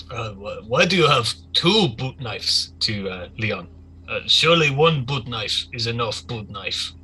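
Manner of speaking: lightly voiced crew leader, slow emphasis; questioning crew leader. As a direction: question them like a puzzled gang lieutenant. Game master plays Artyom, crew leader.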